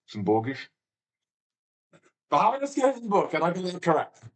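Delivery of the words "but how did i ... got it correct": excited disbelief. Real, not acted. Delighted at getting one right.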